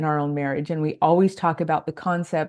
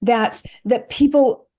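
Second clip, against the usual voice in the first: higher-pitched voicing of a younger self's protest; teenage indignation; 4 semitones higher than usual. Speaker recalls her teenage reaction to an unfair story, voiced high. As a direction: lightly act out a teenager's objection, pitched up. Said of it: "even as a teenager thinking".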